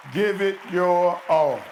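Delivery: loud, very slow, each word weighed; slow emphatic. Shown as a demonstration. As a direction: hammer it home one word at a time. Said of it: "that's all we asking of you all".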